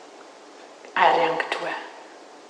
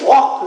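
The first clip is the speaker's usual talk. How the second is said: loud "wah" of impact; imitated thud; 4 semitones higher, 14 dB louder than usual. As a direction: land it as a loud crash noise.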